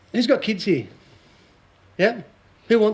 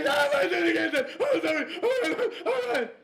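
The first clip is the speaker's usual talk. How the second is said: high mock sobbing plea, much higher and softer; mock panicked pleading; 12 semitones higher, 5 dB quieter than usual. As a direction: beg and apologize in a frightened squeal. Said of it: "She's going".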